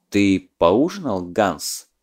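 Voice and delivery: slow, doubting question; skeptical. Acted. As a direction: ask it with open disbelief. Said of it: "скептически спросил".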